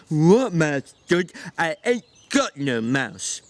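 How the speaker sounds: slow childlike voice, playing innocent; feigned innocence. A narrator's reading. Lenny hiding the mouse from George, feigning innocence. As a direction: act like you've no idea. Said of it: "elaborate pantomime of innocence".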